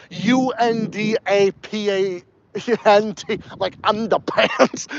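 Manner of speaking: "underpants" drawn out as "undapants", no R; slow New England "undapants"; northern accent. Shown as a demonstration. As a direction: spell it out slowly, then say "undapants". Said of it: "big northern accents will say underpants".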